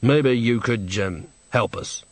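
mildly timid request; hesitant plea. Acted. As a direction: ask humbly, faltering toward the end. Innkeeper timidly asks witches for help.

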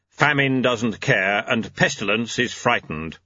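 grave, measured report as Death. Acted. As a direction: deliver the news solemnly.

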